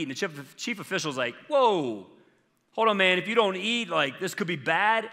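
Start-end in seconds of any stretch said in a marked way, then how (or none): 1.5-5.1 raised-pitch, urgent protest; acted alarm. Chief official objecting to Daniel's refusal, acted alarm. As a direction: halt him with a drawn whoa, then protest higher.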